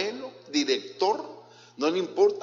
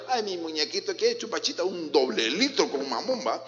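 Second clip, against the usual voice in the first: put-on baby talk. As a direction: coo at a baby. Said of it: "Así le hablan".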